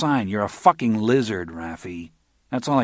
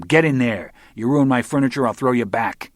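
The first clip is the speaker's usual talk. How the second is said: angry orders; 4 semitones higher, 5 dB louder than usual. Acted. Shoving soaked guest to bathroom.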